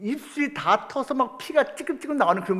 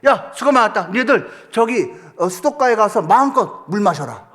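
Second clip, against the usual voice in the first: loud, hearty order to go drink; booming praise from the leader; training chief's call; 2 semitones higher, 5 dB louder than usual. Retold or imitated. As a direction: reward the tired squad with a shout. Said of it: "그 훈련 대장이 그러는 거예요".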